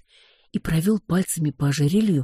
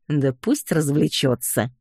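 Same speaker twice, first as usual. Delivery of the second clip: snorting cat; slower than usual. Acted. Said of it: "фыркнул кот".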